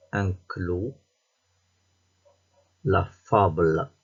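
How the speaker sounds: careful dictation. Shown as a demonstration. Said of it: "Je vais lire les mots".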